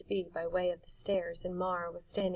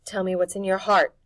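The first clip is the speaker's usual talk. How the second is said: returned invitation; 11 dB louder than usual. Acted. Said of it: "returning her invitation".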